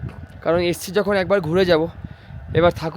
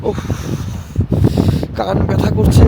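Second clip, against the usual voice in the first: shouting over wind; 2 semitones higher, 4 dB louder than usual. Real, not acted. Strong wind, cold on mountain.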